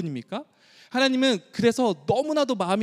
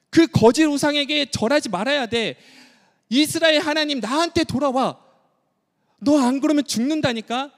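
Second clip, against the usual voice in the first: God's pleading call; 5 semitones higher than usual. Acted. God pleading with Israel to return, urgent then tender. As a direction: beg them to come back home. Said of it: "하나님도 동일하게 그렇게 말씀하고 있죠".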